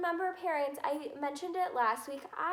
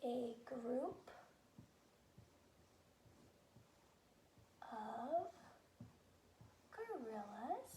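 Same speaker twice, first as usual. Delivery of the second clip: slow dictation; 18 dB quieter, much slower than usual. Shown as a demonstration. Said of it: "A is my first letter".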